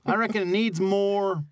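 folksy country drawl of a rural farmhand; rural working-class accent. Acted. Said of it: "so I have to adopt another one".

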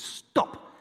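imitating a traffic cop's yell; retold shouted order. Traffic policeman halting a speeding driver, retold shout. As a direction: call it out as a sharp retold command. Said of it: "he starts screaming".

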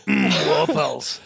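put-on slow, relishing Arnold accent; drawn-out Austrian hum and word; Arnold Schwarzenegger accent. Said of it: "our man Arnold would have done it".

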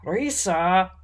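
a touch of angry warning; mildly sharp reproof; angry hiss. A narrator's reading. Half-orc scolding the elf who let it slip, angry. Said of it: "the half-orc hissed angrily".

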